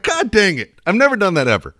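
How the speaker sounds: high, strained mock whine; hammed-up squeal of embarrassment; high embarrassed whine. Host replaying his own mortified reaction in a high whine. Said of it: "dude, it was like".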